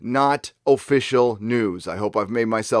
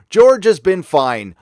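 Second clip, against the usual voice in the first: slow, louder "George has been fine", weight on George; mock quote; 4 semitones higher, 7 dB louder, slower than usual. Host quoting Iger to viewers, slow mocking emphasis. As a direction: spell out Iger's non-answer with slow emphasis. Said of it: "Iger says".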